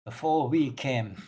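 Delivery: lightly voiced solemn zealot; stern zealot priestess, measured. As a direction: speak as a stern bringer of order, measured. Plays NPC Orthelia.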